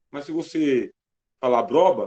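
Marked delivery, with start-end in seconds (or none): 1.6-2.0 "abroba" with br run together, a syllable dropped; mispronounced abóbora. Shown as a demonstration. Teacher giving an example of poor diction, mispronounced "abroba". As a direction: say "abroba" as the slurred form of abóbora. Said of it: "você tem um problema de dicção".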